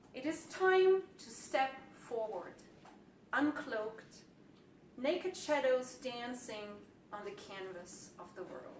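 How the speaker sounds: slow, measured poetry reading with long pauses; poem reading. Acted. Poet reads first poem of collection to audience, measured recital. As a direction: recite it line by line, falling at phrase ends.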